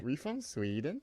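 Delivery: slow mock Swedish accent. Shown as a demonstration. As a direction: stretch it out in a soft fake Swedish accent. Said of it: "I can do other accents".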